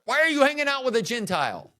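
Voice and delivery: high, fast Jewish mother complaint; Jewish mom. Acted. Mother overheard negotiating evening plans, high quick mock scolding. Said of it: "a Jewish mom, I can do that".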